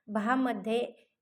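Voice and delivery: भामध्ये with the भा stretched slowly; drawn-out syllable. Shown as a demonstration. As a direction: stretch out भा so the आ is heard. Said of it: "भाचा उच्चार करताना".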